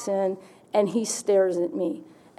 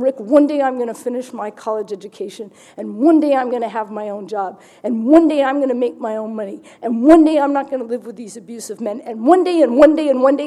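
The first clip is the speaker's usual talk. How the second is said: growing louder with each one day; building vow; 4 dB louder than usual. Retold or imitated. To Rick, vowing a better life, building louder. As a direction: build it up into a pleading crescendo.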